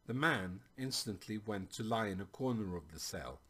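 measured audiobook-style storytelling; story narration. A narrator's reading. Narrator reads a tale of Nat and the king, storytelling.

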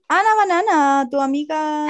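high, loud, slow sing-song cheer; excited call. Real, not acted. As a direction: call her name like a fan. Cheering a listener's friend.

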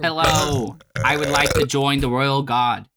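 put-on British accent drifting toward Australian; lightly put-on British-Australian accent; attempted British accent. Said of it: "All I could do is this".

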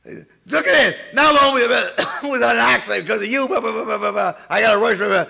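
hammed-up furious husband shouting blame; screaming husband. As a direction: yell blame at her while driving. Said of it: "he screams at her".

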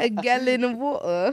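"gallon" with the L sounded, in a mock accent; accented "gallon", keeping its L; L pronounced. Shown as a demonstration. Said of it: "They definitely say the L in gallon".

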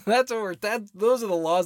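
laughing out loud while talking. Real, not acted. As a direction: break into laughter as you speak. Laughing mid-line.

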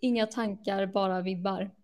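Swedish with a gentle up-and-down tune; speaking Swedish. Shown as a demonstration. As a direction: say it in native sing-song Swedish. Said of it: "like, in Swedish".

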